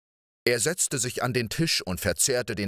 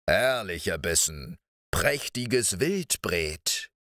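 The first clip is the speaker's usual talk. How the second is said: gloating giant murmur. Acted. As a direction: savour each word like a treat. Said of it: "murmelte er". (genüsslich murmelnder Riese)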